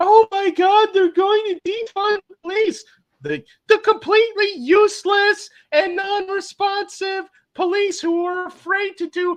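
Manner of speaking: high, fearful, alarmed voice. Imitating people already terrified of crime, with a mock-terrified high-pitched voice. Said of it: "that high pitched voice".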